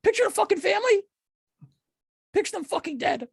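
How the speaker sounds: mock hustle guru. Mock Gary Vee rant.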